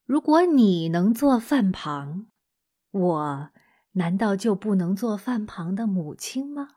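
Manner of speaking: mother calmly asking her son back; calm rhetorical question. Acted. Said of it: "她平静地反问道".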